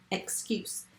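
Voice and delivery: soft whisper of the spelling word; hushed dictation whisper. Shown as a demonstration.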